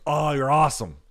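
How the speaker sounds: playfully overdone thanks; mock delight. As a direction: gush it like the grateful friend. Retold friend's delighted reply.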